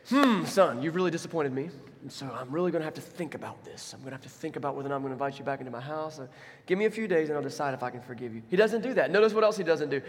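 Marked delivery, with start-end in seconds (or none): 0.1-8.4 a hint of a cold, withholding father; lightly voiced disappointed father; stern father. Preacher voicing a father who withholds forgiveness, mildly stern. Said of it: "The father doesn't run up to him and say".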